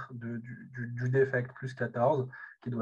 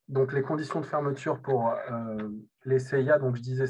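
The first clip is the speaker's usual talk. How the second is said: louder lecture voice; speaking up; 7 dB louder than usual. Real, not acted. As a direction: project for the far listeners. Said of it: "Le son est très faible".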